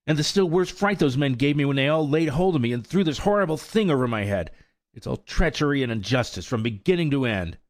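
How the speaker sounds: high, loud, heated colt; indignant outburst. A narrator's reading. Colt raging at his captors to old mare, indignant. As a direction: rant against the injustice. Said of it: "exclaimed Firefly".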